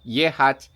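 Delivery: yehat spoken as Russian YEH-khat, stress on the first syllable; Russian verb. Shown as a demonstration. Listing verbs of motion to viewers, yehat in Russian. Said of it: "You have so many words about to go".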